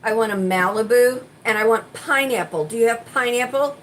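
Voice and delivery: loud customer quote. Retold or imitated. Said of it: "She says".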